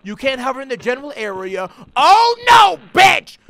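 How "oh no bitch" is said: high, loud exclamation; outraged yell. Real, not acted. Gamer yelling at the puzzle, outraged. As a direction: shout it at the screen in disbelief.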